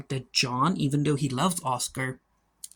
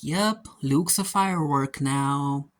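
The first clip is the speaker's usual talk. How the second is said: deadpan joke line; slower than usual. Pretend. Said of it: "and she's like".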